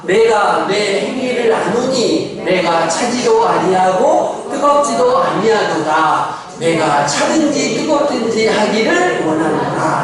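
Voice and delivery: slow, solemn reading of the verse; slow scripture reading. Acted. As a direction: read the Bible verse slowly, weighing each line. Reads the verse together.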